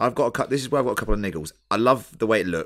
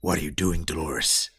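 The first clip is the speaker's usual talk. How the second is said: lower, measured Bernard; 5 semitones lower than usual. Acted. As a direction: read it as Bernard. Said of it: "it goes a little something like this".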